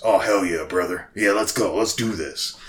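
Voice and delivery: lightly voiced gruff old hillbilly; a touch of grizzled swamp-dweller gruffness; Old Cobb. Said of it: "Like that".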